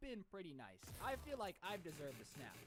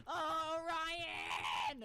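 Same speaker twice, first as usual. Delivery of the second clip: loud, high sing-song call; mock neighbour calling out; 9 semitones higher, 10 dB louder than usual. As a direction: call his name through the door. Karen calling at the door.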